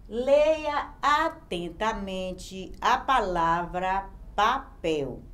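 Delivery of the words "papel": "papel" read carefully with a small break before "pel"; slow, attentive reading of "papel"; read slowly. Shown as a demonstration. Teacher modelling how to read a word, slow and careful. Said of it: "como é que eu vou ler aqui".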